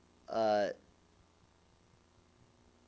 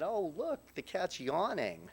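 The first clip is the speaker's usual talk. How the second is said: much higher, delighted little gasp of wonder; in awe; 9 semitones higher than usual. Retold or imitated. Mom marvels at the yawning cat, high awed voice. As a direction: mimic mom marvelling at something she's never seen. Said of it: "she was in awe that the cat was yawning".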